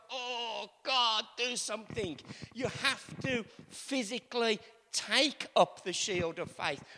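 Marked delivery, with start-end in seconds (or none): 0.1-2.2 soft, strained mock prayer; mock helpless plea. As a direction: plead weakly, as if with eyes screwed up. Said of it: "screw up your eyes and go".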